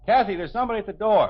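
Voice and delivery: loud fast call across the house. Acted. Father calling to daughter about the door, loud quick call out. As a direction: shout to her in the other room.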